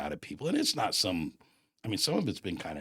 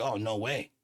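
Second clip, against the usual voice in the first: indignant refusal, louder and higher on the repeat; retold anger; 4 semitones higher, 3 dB louder than usual. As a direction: retell digging your heels in, mad. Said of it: "I got raging mad".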